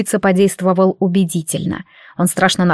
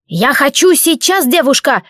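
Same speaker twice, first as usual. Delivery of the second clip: bandit yelling; 5 semitones higher than usual. Acted. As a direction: yell it like a greedy bandit. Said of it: "заорал переговорщик".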